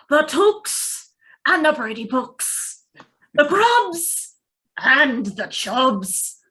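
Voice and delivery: put-on old hobbit drawing out each family name; a lightly voiced Bilbo playing to the crowd; Bilbo's speech. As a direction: savour every name like a toast.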